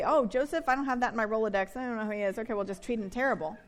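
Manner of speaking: casual, hurried dismissal; dismissive shrug. Acted. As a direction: toss it off like he's nobody. Voicing Pharaoh shrugging Joseph off.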